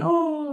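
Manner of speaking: held-back imitation of a screaming sob; Two-Face's cry scream. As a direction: imitate an anguished cry, pitched very high. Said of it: "guttural cry scream where he's like".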